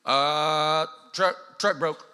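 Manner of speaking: playing the clueless car owner; dumb truck owner. Mimics someone with broken truck.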